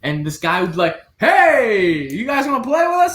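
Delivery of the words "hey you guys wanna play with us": loud, high Boston holler; fake Boston accent. Golfer hailing passing groups, fake Boston accent. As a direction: call out quickly in a put-on Boston accent. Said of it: "the fake Boston accent".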